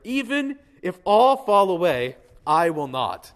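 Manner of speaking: loud, slow, defiant vow; mock proud promise of loyalty; bold boast. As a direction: proclaim it like nothing could shake you. Peter's boast, pastor acting it out.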